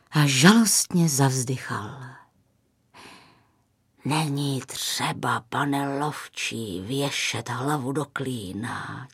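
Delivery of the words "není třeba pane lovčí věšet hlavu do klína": slow, soft, lowered voice; consoling. A narrator's reading. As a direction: gently comfort a downcast man, unhurried. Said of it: "těšil ho stařec". (konejšivě, pomalu a tiše)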